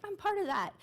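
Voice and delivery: high, bright protest; eager audience member. Retold or imitated. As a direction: pipe up like a left-out listener. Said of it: "you're like".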